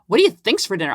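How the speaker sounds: lightly imitated snap at the husband; a hint of irritated retort; mock snappy. Wife to husband asking about dinner, mild mock snap. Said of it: "I'll be, like, so snappy".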